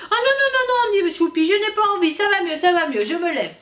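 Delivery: put-on high, loud child protest with a laugh; a child hurriedly refusing, laughing nervously; panicked little boy. Tchoupi refusing when maman wants to call the doctor, high and laughing.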